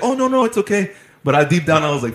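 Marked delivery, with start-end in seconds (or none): 0.0-0.9 higher, lightly voiced server; retold reassurance. Server telling the customer it's fine, reassuring. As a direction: brush off the apology kindly. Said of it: "She's like".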